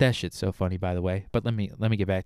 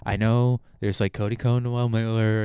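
usual speaking voice

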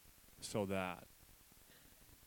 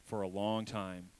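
slowly drawn out; 2 semitones lower than usual. Shown as a demonstration. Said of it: "Everybody say".

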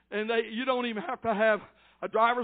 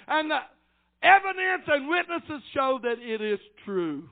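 raised pulpit voice, climbing in pitch; preached rebuke; 6 semitones higher, 3 dB louder than usual. Real, not acted. Preacher correcting those who repeat accusations, preached rebuke. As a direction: admonish the congregation firmly.

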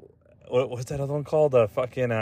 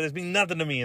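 softer, higher New York artist voice; mock New York accent; 4 semitones higher, 5 dB quieter, faster than usual. Artist shrugging off his diamonds, mock New York accent. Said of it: "an artist from New York City's".

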